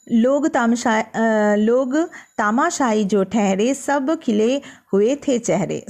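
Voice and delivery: slow, measured verse reading; poem recitation. Acted. Teacher reading a poem aloud to students, slow recital. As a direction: recite each line slowly for the class.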